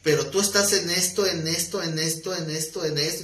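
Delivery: "en esto" repeated with a rise each time; acted pastor piling up "en esto" after "en esto"; insistent listing. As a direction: tick off each fault on a rising "en esto". Pastor lists the man's faults.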